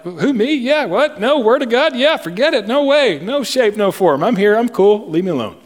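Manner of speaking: high, bobbing mock dismissal; evasive backpedalling. Acting a convert backing away.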